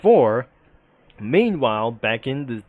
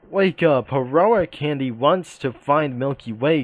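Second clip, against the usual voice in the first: a raised wake-up call; mild yell; 3 semitones higher than usual. Acted. Waking the sleeping cookie, mild yell. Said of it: "She yells".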